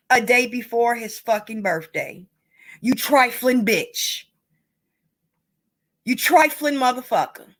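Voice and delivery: real anger breaking through, cursing; bitter, seething insults; angry outburst. Real, not acted. Vlogger cursing the mother over the dead child, angry. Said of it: "I'm sorry to be angry like that".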